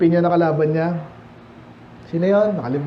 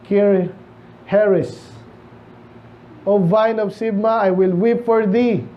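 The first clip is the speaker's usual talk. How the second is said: slow, measured Bible reading; scripture reading; slower than usual. Acted. Pastor reading Isaiah to the congregation, slow and solemn. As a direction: read the verse slowly and solemnly.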